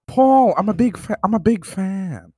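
a light Owen Wilson, laid-back and amazed; Owen Wilson impression. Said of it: "is that Owen Wilson?".

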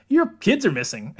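offhand, casual delivery; nonchalant. Retold or imitated. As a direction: say it like it's nothing. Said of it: "very nonchalantly is like".

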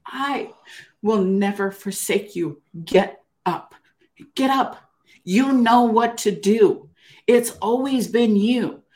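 slow, measured, emphatic command; inner divine voice. Retold or imitated. Voice in her head lifting her off the floor, slow insistence. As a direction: deliver each phrase as a firm promise, drawn out. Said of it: "I heard this voice in my head".

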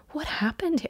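hushed, breathy question; whisper. Retold or imitated. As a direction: whisper it in disbelief. Whispered quote of her own reaction.

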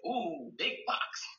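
drawn-out ooh, big box; slow toddler talk. Shown as a demonstration. Therapist modeling words slowly for a toddler. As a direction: stretch it for the little one. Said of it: "Or you might say".

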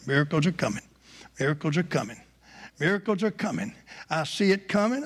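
insistent, repetitive chant-like prediction, gradually building; mounting conviction in character; Faith foretelling miracles. Acted.

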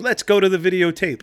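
a touch of TV sportscaster flair; Warner Wolf impression. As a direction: announce it like a nightly sports anchor. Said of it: "he goes".

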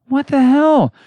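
sigh, then a slow high what the hell; exasperated outburst. Real, not acted. Host fed up with rising case numbers, sighing outburst. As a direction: throw up your hands in disbelief.

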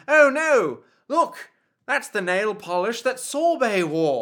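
loud, high, shocked cry; shocked gasp. Retold or imitated. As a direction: gasp it out in horror. Shocked hitman reaction.

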